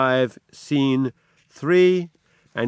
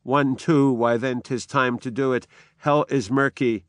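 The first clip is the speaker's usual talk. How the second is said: slightly raised Shakespeare reading of a sleepwalking lady; dramatic reading. Acted. Lecturer voicing the sleepwalking Lady Macbeth, dramatic reading. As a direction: read it as a haunted Lady Macbeth.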